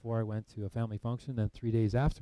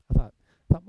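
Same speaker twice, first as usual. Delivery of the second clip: surprised; 6 semitones higher, 13 dB louder than usual. Retold or imitated. Shocked by mother's loving words.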